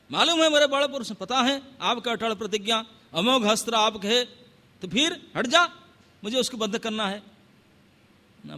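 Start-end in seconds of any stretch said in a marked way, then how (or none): 0.1-7.2 a touch of an angry king telling him to move; commanding Rama, pressing and impatient; stern command. Acted. Rama orders Hanuman aside.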